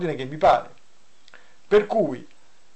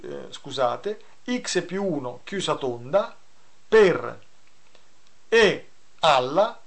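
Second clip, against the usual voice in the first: dictating. Shown as a demonstration. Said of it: "Ridico la funzione perché mi rendo conto che".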